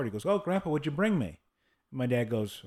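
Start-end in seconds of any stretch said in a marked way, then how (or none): 0.2-1.4 put-on high, eager little-kid voice; imitating a four-year-old. Grandson asking visiting Grandpa for a present, small-child voice. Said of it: "Conrad was four".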